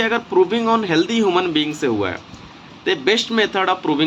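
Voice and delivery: words spaced out slowly so students can write; teacher dictating notes slowly to students, slow and deliberate; slow dictation pace. Shown as a demonstration. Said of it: "मैं धीरे धीरे बोल रहा हूँ".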